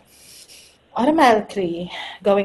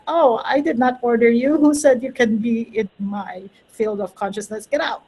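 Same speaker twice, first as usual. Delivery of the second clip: higher, playful scolding of an unwanted thought; mock indignant; 4 semitones higher than usual. Speaker telling an old belief to leave, mock indignant. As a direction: shoo it away with mock outrage. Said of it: "I'm like".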